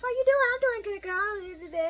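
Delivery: high-pitched mock girl talk; exaggerated high chatter; girly chit-chat imitation. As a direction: mimic gushing girlfriends up high. Acting out girlfriends greeting each other.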